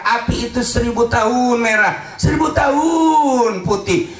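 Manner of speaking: fiery sermon build-up; rising preaching fervour. Real, not acted. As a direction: preach the hellfire, building to a cry. Preacher describing the colours of hellfire.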